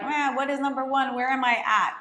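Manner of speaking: confused beginner. Retold or imitated. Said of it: "you're like".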